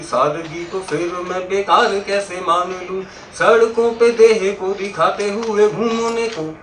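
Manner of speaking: slow, chant-like verse recitation; lilting stage poem; poetry recitation. Acted. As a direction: stretch each metrical phrase for the audience.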